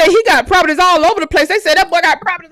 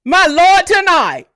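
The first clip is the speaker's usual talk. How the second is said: slow, drawn-out astonished exclaim; shocked; 3 semitones higher, 4 dB louder, slower than usual. Real, not acted. Stunned by the mansion's size, slow and amazed. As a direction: draw out the oath in disbelief.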